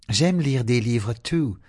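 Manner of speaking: put-on high, cheerful girl; young girl voice. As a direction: agree brightly. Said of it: "agreed Zoe".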